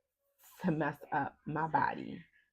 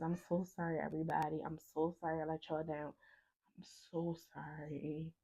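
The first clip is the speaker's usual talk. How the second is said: soft, subdued pleading sorry; remorseful apology; 6 dB quieter than usual. Retold or imitated. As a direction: apologise quietly, fading softer. Tearful teller repeats her apologies.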